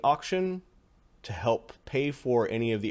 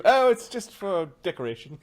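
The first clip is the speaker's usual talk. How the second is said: mock innocent host; 8 semitones higher, 6 dB louder than usual. Mock tour of haunted house.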